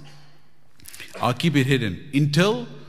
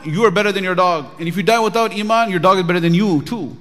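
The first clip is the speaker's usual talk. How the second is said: higher, louder bold proclamation; ringing preacher's warning; emphatic declaration; 6 semitones higher, 6 dB louder than usual. Retold or imitated. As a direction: drive the point home to the king. Sheikh boldly answers the king.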